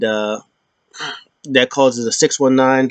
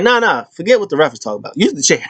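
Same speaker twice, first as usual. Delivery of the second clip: mock Dom urging; 6 semitones higher, faster than usual. Dom voiced urging chair use.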